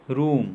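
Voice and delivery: रूम with a long ऊ. Shown as a demonstration. Teacher showing double O said long, held vowel in रूम. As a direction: hold the "oo" in रूम. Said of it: "दीर्घ उच्चारण".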